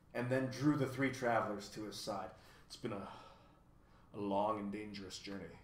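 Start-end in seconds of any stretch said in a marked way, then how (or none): 2.7-5.6 softly. A narrator's reading. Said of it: "he began softly".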